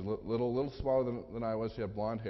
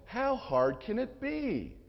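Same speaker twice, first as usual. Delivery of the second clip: slow, much higher, breezy confidence; cocky rhetorical question; 9 semitones higher, much slower than usual. Retold or imitated. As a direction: toss it off like it's easy. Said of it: "I said".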